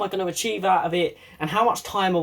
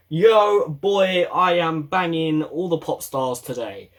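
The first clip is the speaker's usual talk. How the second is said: cocky swagger; slower than usual. Retold or imitated. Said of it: "Wear something you feel like".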